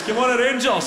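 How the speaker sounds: shout. Retold or imitated. Fan walking behind the presenter shouting, loud chant. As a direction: bellow it like a passing fan. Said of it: "He shouts".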